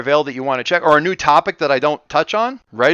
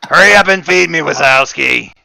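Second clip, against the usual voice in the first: louder demanding cartoon dispatcher; bossy pet voiced as dispatcher; Monsters Inc dispatcher; 3 semitones higher, 7 dB louder than usual. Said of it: "She talks like, um, the dispatcher from Monsters, Inc".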